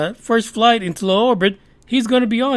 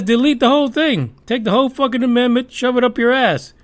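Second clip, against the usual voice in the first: mock furious Bernie; 5 semitones higher than usual. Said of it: "He says".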